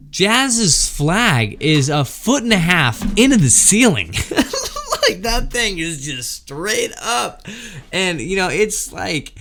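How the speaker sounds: words breaking into a laugh; can't hold back the laugh as you tell it; laughing while telling. Real, not acted. Laughing at the absurd memory.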